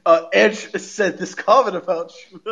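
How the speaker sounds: hushed groveling toady voice; Paul Heyman. Retold or imitated. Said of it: "he's like".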